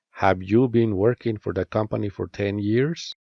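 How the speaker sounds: rising intonation ending on "years"; rising question tune. Shown as a demonstration. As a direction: pitch rises on "years" at the end. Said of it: "use a rising intonation at the end".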